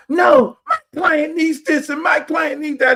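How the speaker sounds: high, loud courtroom shout; mock lawyer shouting. Lawyer yelling at the judge for his client, loud shout. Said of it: "go screaming out".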